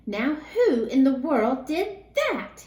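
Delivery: loud, slow, startled demand; exclaimed. Acted. Night watchman hearing the crash, loud and slow. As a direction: call out into the dark store. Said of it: "he exclaimed".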